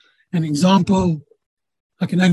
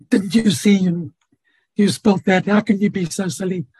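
critical nagging tone. Retold or imitated. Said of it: "this tone of voice".

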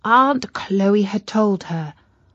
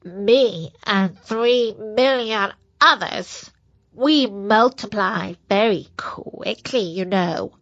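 germ voice. Acted. The virus boasts.

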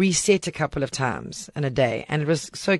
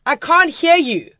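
high, loud, slow, irritated shout; yelling at husband downstairs, exasperated; impatient yell; 10 semitones higher, 6 dB louder, slower than usual. Retold or imitated. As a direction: snap his name down the stairs. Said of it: "I was like".

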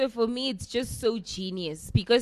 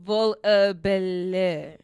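put-on French accent; 4 semitones lower, 4 dB quieter, much slower than usual.

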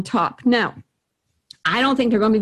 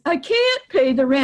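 a touch higher, pleading victim; hint of a helpless victim; lightly voiced victim; 4 semitones higher than usual. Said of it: "the victim says".

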